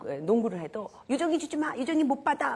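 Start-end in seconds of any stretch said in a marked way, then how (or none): 1.1-2.6 put-on kids shouting. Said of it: "막 이러면서 따돌려요".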